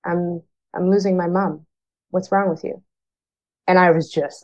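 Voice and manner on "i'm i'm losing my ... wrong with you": softer, a hint of a crying child; mother retells her daughter's tearful plea, softly. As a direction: lightly voice the hurt daughter, hushed. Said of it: "And she's like".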